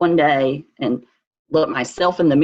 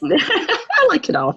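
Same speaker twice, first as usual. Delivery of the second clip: laughing; 12 semitones higher, slower than usual. Real, not acted. Joking she likes whole Bible.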